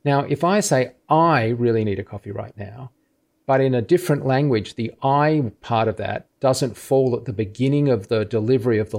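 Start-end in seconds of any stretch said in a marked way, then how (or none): 1.1-2.9 "I" emphasized, rising end; "I" stressed, line rising. Shown as a demonstration. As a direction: lean on "I" at the start. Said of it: "super emphasis that I placed on the word I".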